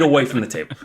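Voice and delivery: worn-out working dad, dropping his r's; hammed-up blue-collar dad rant; exasperated dad. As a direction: gripe haltingly like a tired factory father. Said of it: "the dad's just like".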